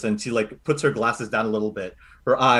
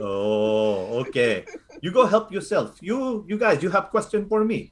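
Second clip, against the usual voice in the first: lightly voiced doting Filipino grandmother; a hint of a fussing lola reassuring the party; grandma Lola Carly; 6 semitones higher than usual. Lola Carly fussing over the recruits, lightly voiced.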